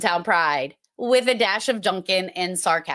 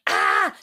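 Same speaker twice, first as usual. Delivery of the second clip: low intense ah. Shown as a demonstration. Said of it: "It's, like, up here".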